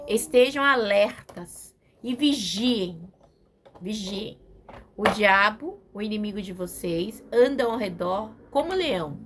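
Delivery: slow, steady reading of the verse; scripture reading. Shown as a demonstration. Preacher reading the verse to the congregation, measured. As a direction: read the warning out to the church. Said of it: "é muito forte".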